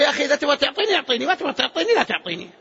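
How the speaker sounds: fast, offhand demand; take-it-or-leave-it request. Acted. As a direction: ask as if you don't care. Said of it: "تقول له". (طلب بلا مبالاة)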